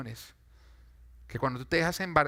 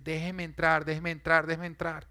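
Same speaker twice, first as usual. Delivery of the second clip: voice of fear; 3 semitones higher than usual. Acted. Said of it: "el temor va a golpear fuertemente la puerta de tu corazón y te va a decir".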